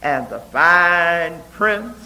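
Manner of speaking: measured, rhythmic reading of her own poem; a poet reading her ballad-like poem to an audience; poetry reading. Acted. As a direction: read it like a ballad, giving each line its beat. Reads her poem aloud.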